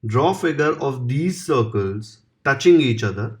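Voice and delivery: slow, even dictation of the question; slow exam-question dictation; dictation reading. Acted. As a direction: read it out word by word for students to copy. Reads question slowly.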